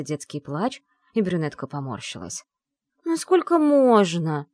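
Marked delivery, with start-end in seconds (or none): 3.0-4.5 slow, higher, louder eye-rolling sigh; exasperated. A narrator's reading. Brunette irritated by the crying baby, slow exasperated whine. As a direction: drag it out, fed up. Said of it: "закатила она глаза".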